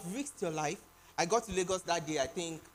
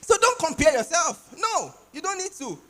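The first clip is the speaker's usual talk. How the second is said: emphatic, louder; 9 semitones higher, 8 dB louder than usual. Real, not acted. Emphatic exhortation.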